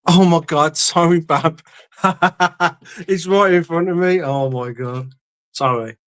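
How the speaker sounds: high, laughing exclamation; laughing apology. Real, not acted. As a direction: burst out laughing at your own blunder. Laughs on finding it right there.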